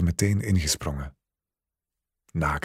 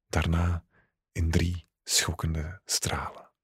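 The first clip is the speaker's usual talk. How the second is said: intimate story reading. A narrator's reading. Story's closing climax passage.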